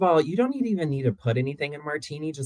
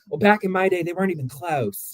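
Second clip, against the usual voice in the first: put-on higher-pitched old-person voice; old-timer; 6 semitones higher than usual. Imagining being old and out of touch, higher old-timer voice. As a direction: play a contrary old-timer reminiscing. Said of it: "that's the person I wanna be when I get older".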